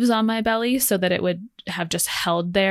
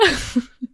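crying laugh; 6 semitones higher than usual. Real, not acted. Laugh after diarrhea line.

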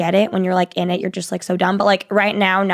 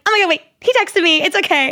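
mock relieved squeal; 9 semitones higher, faster than usual. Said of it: "She's like".

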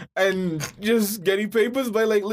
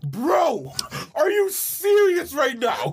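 surprised; 8 semitones higher, much slower than usual. Real, not acted. Shocked by the David Dobrik claim.

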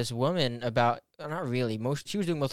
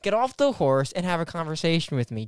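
loud, high exasperation; exasperated outburst; 7 semitones higher, 5 dB louder than usual. Real, not acted. Host snaps at co-host who won't discuss it, exasperated shout. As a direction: raise your voice at a stubborn partner.

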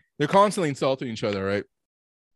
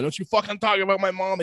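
mock furious outburst; 7 semitones higher than usual. Thor squeezing a water bottle over a mom insult, mock fury. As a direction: imitate someone starting to lose it. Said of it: "spazzing the fuck out".

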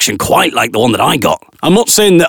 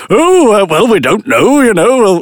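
modest demurral; 7 semitones higher, 3 dB louder, slower than usual. Retold or imitated. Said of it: "I'm kind of modestly kind of".

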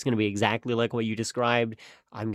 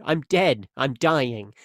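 mock panic; 3 semitones higher than usual. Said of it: "your brain's kinda telling you".

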